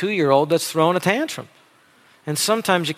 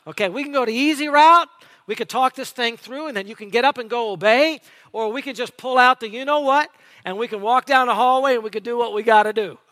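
put-on dad talking to kids; 5 semitones higher than usual. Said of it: "This is like a dad talking to the kids".

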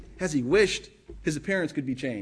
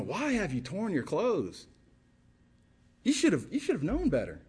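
quiet rebuke; 5 dB quieter than usual. Retold or imitated. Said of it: "there's really this rebuke".

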